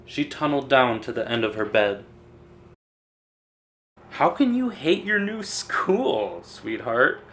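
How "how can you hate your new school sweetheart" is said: higher, a touch of a chuckle; gently amused disbelief; amused father. A narrator's reading. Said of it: "Mister Hartwell chuckled".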